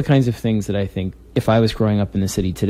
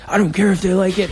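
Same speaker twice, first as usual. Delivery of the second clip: imitating Greg; 11 semitones higher, faster than usual. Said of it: "And he'd be like".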